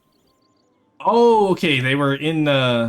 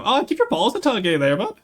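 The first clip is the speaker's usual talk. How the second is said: put-on higher, louder stereotypical Canadian accent; mock Canadian accent, a bit higher and louder; Letterkenny Canadian; 10 semitones higher, 5 dB louder than usual. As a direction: toss it off like a rural Canadian buddy. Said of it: "I talk like Letterkenny".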